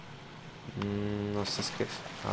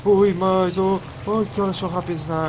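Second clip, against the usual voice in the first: high, loud frightened squeals; panicked yelp; 9 semitones higher, 8 dB louder than usual. Real, not acted. Player fleeing fast leeches in the water, high frightened yelps. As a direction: yelp as they close in.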